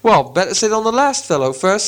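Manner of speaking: offhand troll planning; troll suggestion. Acted. Bert answering the voice, lightly voiced troll. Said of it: "said Bert".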